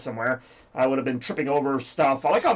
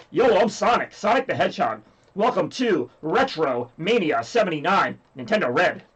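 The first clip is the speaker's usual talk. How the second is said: lightly voiced cartoon hero introduction; a hint of a game mascot, slowing on the welcome; Sonic the Hedgehog; 2 semitones higher than usual. Sonic gives viewers the requested catchphrase, lightly voiced role. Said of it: "they wanna hear the catchphrase".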